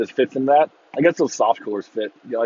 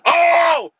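high, loud fake surprise; mock crowd gasp; 7 dB louder than usual.

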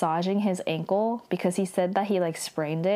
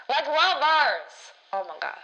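gushing; 7 semitones higher than usual. Real, not acted. Gushing over the couple's hug.

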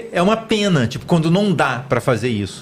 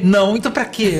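laughing; 4 semitones higher than usual. Retold or imitated. Imitating friend's hospital complaint.

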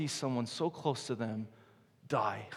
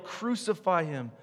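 ordinary talk

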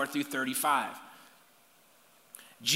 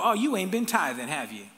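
petty judgmental God; 4 semitones lower, 3 dB quieter than usual. Retold or imitated. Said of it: "he doesn't look at you and go".

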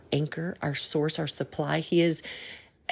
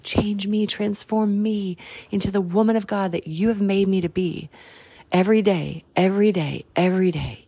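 raised, pleading prayer, getting louder on every day; fervent prayer; 4 semitones higher, 3 dB louder than usual. Retold or imitated. Quoting her own prayer to God, fervent and loud. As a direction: pray it with rising fervour. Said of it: "I'm like".

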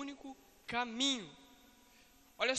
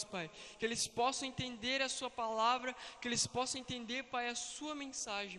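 steady, earnest praying aloud; fervent prayer. Acted. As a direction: pray over the young people. Ora em voz alta pelos jovens. (oração fervorosa em voz alta)

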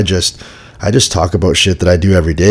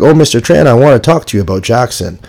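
higher, lightly voiced teacher calling out; a hint of the polite teacher voice, pitched up; mock teacher greeting a parent, higher; imitating the teacher; 5 semitones higher, 4 dB louder than usual. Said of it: "his teacher was like".

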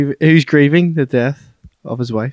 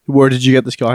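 firmer, louder repeat of the question; retold insistent demand; 4 dB louder than usual. Mafia boss questioning his men about the car, retold insistently. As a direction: press the question home, mildly acted.

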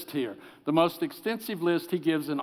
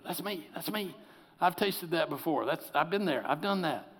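soft, breathy admission of guilt; soft remembered realization; hushed confession; 5 dB quieter than usual. Retold or imitated. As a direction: confess it under your breath. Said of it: "I'm going, you know".

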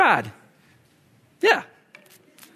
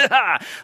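evil breathy "hah" of a snake; short menacing creature noise; imitated snake sound; 4 semitones higher than usual. Preacher mimicking the snake on his steps, evil breathy noise.

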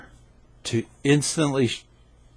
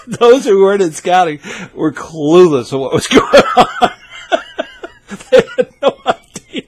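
talking through high laughter; laughing; 7 semitones higher, 8 dB louder than usual. Real, not acted. Telling scouts about the board meeting, laughing. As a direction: giggle through the words.

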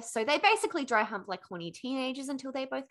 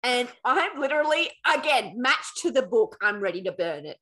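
worked-up outrage; 5 dB louder than usual. Real, not acted. Outraged reader ready to burn book.

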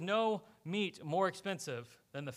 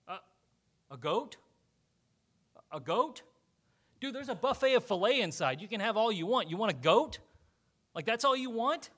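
incredulous father; 3 semitones higher, 5 dB louder than usual. Acted.

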